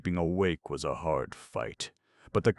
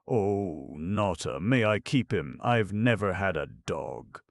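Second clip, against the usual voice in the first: higher, lightly voiced eager boy; eager pleading; 4 semitones higher, 3 dB louder than usual. Boy asks clown to keep dog, eager pleading. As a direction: beg with a touch of excitement.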